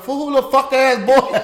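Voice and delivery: loud, high hammed-up retort through laughter; boisterous put-on challenge; mock barber. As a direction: play a brash barber on the phone. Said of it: "if they call a black barber shop".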